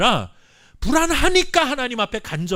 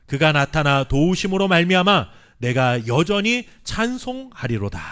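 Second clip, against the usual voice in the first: scripture read aloud together; 3 semitones lower, 3 dB louder than usual. Real, not acted. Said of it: "함께 읽겠습니다".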